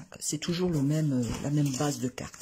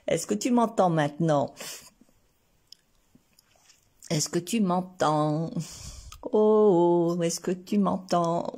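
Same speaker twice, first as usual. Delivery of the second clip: louder, slow, checking she hears; to someone hard of hearing; 2 semitones higher, 6 dB louder, slower than usual. Real, not acted. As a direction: call it out clearly and slowly. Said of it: "je vais parler plus fort alors".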